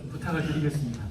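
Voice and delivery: a touch of courteous, soft phone request; respectfully, slightly hushed; polite. Shown as a demonstration. Parent on the phone to the principal, politely. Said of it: "정중하게 부탁을".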